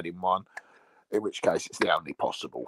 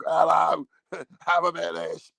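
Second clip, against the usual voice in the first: cheery sister voice; 7 semitones higher, 4 dB louder than usual. Retold or imitated. Sister greets on video call.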